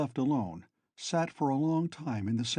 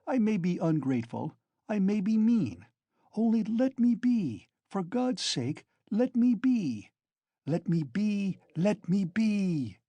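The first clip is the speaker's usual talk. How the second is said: frenzied plea; 8 semitones higher than usual. A narrator's reading. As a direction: beg to be left alone, in a frenzy. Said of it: "finished, panting for breath, in a frenzy".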